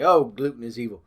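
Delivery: loud mocking voice; mock outrage. Vlogger mocking wheat-scared people with loud mock outrage.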